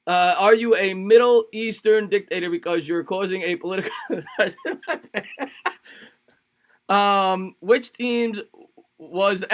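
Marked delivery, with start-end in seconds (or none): 4.0-5.7 soft, high giggling laugh; helpless high chuckle; real laugh. Real, not acted. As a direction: crack up at the silly line. Laughs at the pickup line.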